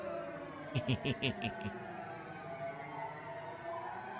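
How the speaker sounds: long high crazed laughter; hysterical laugh. Acted. Avenger laughing over her finished killings, hysterical and high. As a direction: laugh like the revenge broke her mind.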